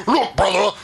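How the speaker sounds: a hint of a growly wrestler promo; Hulkamania voice. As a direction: ham up a Hulk Hogan promo. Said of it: "your Hulkamania voice".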